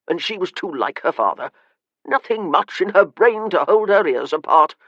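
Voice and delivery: lightly voiced frail old gentleman, contemptuous; a hint of a scornful old uncle; disdainful old man. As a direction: sneer at the young man like a dying aristocrat. Old man's weary scorn.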